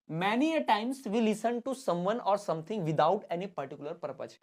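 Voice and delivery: slow, word-by-word reading; slow classroom dictation; dictation pace. Shown as a demonstration. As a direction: dictate it slowly for notes. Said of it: "dictation of definition".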